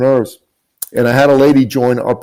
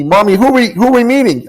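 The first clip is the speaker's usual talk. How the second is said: put-on higher, light young boy asking his mom; child's voice; 10 semitones higher, faster than usual. Mother retelling her son's question in a child voice. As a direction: voice the little son, small and curious.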